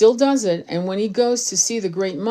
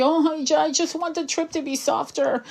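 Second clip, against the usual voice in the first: much higher, dainty put-on voice; mocking prissy complainer; 9 semitones higher than usual. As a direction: sneer at them with a sugary high voice. Mocking someone wanting a softer trip.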